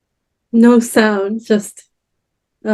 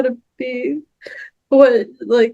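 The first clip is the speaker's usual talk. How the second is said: crying. Real, not acted. Tearful confession to parents.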